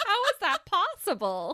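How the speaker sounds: high, loud words through laughter; laughing incredulity. Real, not acted. Host reacting to the jury being told to disregard, laughing disbelief. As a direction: crack up in disbelief, pitch jumping up.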